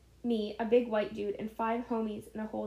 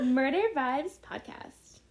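ominous tone; 3 semitones higher, 3 dB louder, slower than usual. Acted. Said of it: "In that tone".

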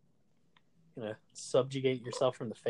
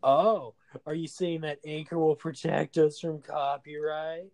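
mock-impressed, patronizing lilt; sing-song condescension; condescending; 3 semitones higher, 4 dB louder than usual. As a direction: feign amazement, talking down. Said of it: "sounding so condescending".

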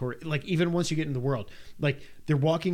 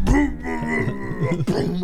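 high, loud, slow booming; slow and heavy, then boom boom; 9 semitones higher, 6 dB louder, much slower than usual. Retold or imitated. Player entering castle gets blasted, loud booms. Castle attack hitting him.

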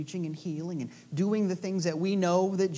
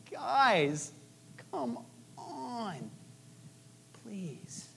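pleading cry; 3 semitones higher, 5 dB quieter, much slower than usual. Retold or imitated. Jesus weeps, pleading.

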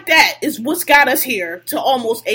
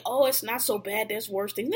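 mocking coworker; 4 semitones lower, 7 dB quieter than usual. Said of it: "Niggas with they".

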